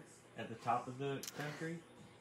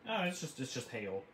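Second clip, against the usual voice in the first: mock casual shrug; mocking nonchalance. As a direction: toss it off like nothing. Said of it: "You say that like it's".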